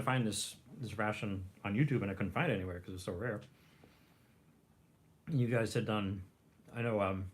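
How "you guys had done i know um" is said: talking while chewing; mouth full. Real, not acted. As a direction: speak through a mouthful of food. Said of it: "sorry, I'm chewing".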